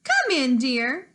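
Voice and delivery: lightly voiced old lady; a hint of a sweet granny inviting; Grandmother. Grandmother welcoming the visitor, lightly voiced old lady. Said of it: "said Grandmother".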